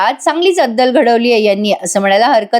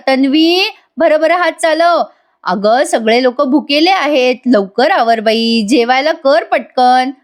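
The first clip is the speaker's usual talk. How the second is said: slow, drawn-out nagging mother-in-law, pitch raised at first; hurrying instructions; 3 semitones higher, slower than usual. Retold or imitated. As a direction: nag her to hurry, stretching each word. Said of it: "instruction देत असतात". (सावकाश, ओढून, घाई करायला सांगणारी सासू)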